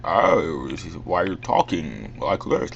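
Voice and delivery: halting, quirky celebrity impersonation; Christopher Walken. Acted. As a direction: imitate a famous actor's odd cadence. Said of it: "like Christopher Walken".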